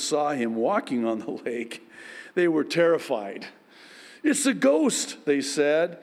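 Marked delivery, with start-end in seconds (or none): 4.2-5.2 high frightened cry of the disciples; a touch of terror; mild fearful cry. A narrator's reading. Disciples on the stormy lake, frightened cry. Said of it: "cried out in fear".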